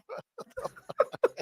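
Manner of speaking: squeaky high, breathy "what the"; mock disbelief. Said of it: "and I'm like".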